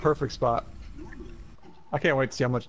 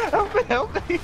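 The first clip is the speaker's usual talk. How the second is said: mocking cries; 3 dB louder than usual. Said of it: "You're like".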